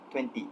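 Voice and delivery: "twenty" with both t sounds, "twen-tee"; "twenty" articulated in full, nothing dropped; complete pronunciation. Shown as a demonstration. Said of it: "and pronounced it com-, completely".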